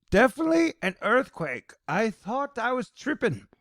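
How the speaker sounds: high-pitched mock New York voice; hammed-up New York voice; New York accent. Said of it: "That's my New York voice".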